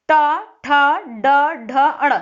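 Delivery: टा and ठा struck hard and loud, tongue curled up; retroflex sounds demo. Shown as a demonstration. Teacher sounding retroflex letters loudly for the class. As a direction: punch out each retroflex syllable. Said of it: "आपकी जीवा ऊपर की ओर जा रही है".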